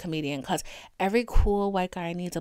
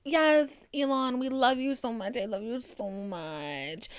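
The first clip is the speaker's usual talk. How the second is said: gushing fanboys; 5 dB quieter than usual. Retold or imitated. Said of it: "my cheering fanboys are gonna be like".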